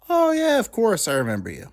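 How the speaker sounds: high, loud "oh" settling down; hammed-up fake remembering; feigned recognition. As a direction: overdo the sudden recognition, bluffing. Pretends to remember her, no idea.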